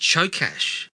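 Chokash said as CHO-kash, with a final sh; name pronunciation. Shown as a demonstration. Reading out the trivia to co-host, careful name pronunciation. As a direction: pronounce Chokash with a closing "sh". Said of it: "his last name is pronounced".

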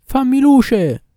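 high, loud, drawn-out call; distant shout. A narrator's reading. Jewish doctor calls from afar to his maid in the dark, shouting. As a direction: call out long and high to someone far off. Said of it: "gridò di lontano alla serva".

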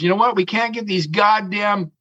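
mock lazy captain voice; imitating the other captain. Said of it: "and he goes".

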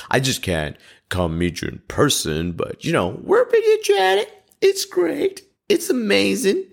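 very high, falsely cheerful reassurance; forced cheery voice. Retold or imitated. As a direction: insist everything is fine, overly bright and high. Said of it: "came on a video and went".

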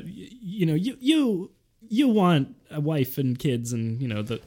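stilted, halting Walken rhythm; jerky pauses like Christopher Walken; Christopher Walken impression. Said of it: "Is your mom Christopher Walken".

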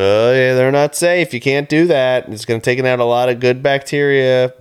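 mock objection. Voices objectors in a cheese debate.

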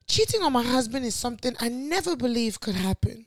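put-on reading in a light posh Nigerian accent. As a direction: put on a hint of posh Naija English. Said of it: "Wait, this accent".

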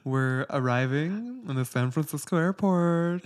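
over the intercom. Retold or imitated. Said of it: "The pilots".

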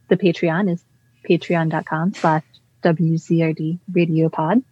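crisp announcer voice reading the handles. Acted. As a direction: announce it like a radio host. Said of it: "uh, announcer voice".

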